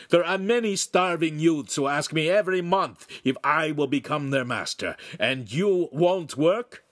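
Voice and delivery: high, loud indignant rant; angry master. A narrator's reading. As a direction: scold the children with heavy, forceful emphasis. Master rages at disobedient children.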